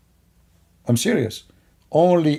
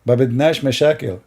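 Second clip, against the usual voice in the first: put-on Palestinian accent; much faster than usual. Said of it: "this is a Palestinian accent".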